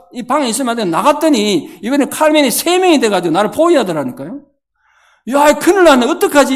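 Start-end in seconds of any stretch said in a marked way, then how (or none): 5.3-6.5 higher, louder alarmed cry; mock panic. Pastor acting his panic in the dream, louder and higher. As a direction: act the sudden panic of being surrounded.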